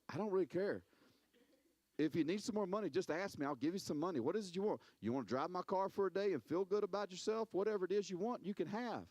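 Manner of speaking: breezy shrug of a rich neighbor; casual, generous and unbothered; unbothered other person. Retold or imitated.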